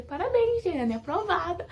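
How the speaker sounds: high-pitched congratulations, imitating the instructor; parabéns encenados. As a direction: announce a pass brightly, as retold. Instrutor anuncia a aprovação, citado. (imitando parabéns, voz mais aguda)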